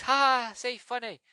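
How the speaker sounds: high, loud mock giggle of a madman; a film viewer imitating the villain's creepy amusement; Gorr's psychotic laugh. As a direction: cackle it out like an unhinged villain. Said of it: "and he's".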